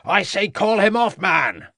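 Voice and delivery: high, loud desperate command; urgent yell. A narrator's reading. Inspector yelling at the farmer as the dog attacks. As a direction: shout it over the struggle.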